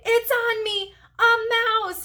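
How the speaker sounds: high, loud frightened cries; panicked scream. Acted. Marty screaming as the hamster runs on him, panicked. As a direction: yelp it in pure panic.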